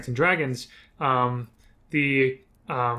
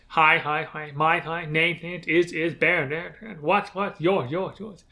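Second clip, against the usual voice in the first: echo effect; 3 semitones higher than usual. Shown as a demonstration. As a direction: voice repeating itself like an echo. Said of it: "so I can do an echo effect with my voice".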